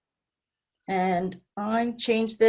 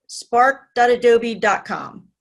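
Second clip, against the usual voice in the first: slow, clear and louder; slow dictation; 5 dB louder, slower than usual. Real, not acted. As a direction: spell out the web address slowly. Teacher dictating web address to class.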